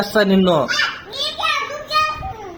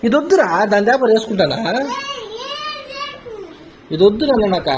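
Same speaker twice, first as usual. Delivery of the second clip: tearful, higher whining refusal; crying refusal; 8 semitones higher than usual. Real, not acted. Child crying to dad over the wrong shirt, tearful whine. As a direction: plead through real tears, a bit higher.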